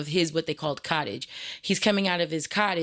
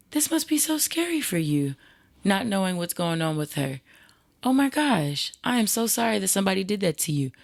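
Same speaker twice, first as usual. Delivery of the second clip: comforting; 3 semitones higher than usual. Retold or imitated. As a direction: soothe the upset boy. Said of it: "I said".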